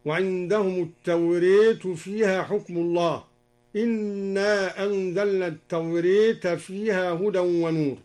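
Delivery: التوريت with the alif leaned toward e, as tawreet; imala reading. Shown as a demonstration. Teacher reciting al-Duri's imala of التوراة with an e-like vowel. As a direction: lean the long a of التوريت into an e sound. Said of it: "قرأ الدوري بإمالة ألف التوراة".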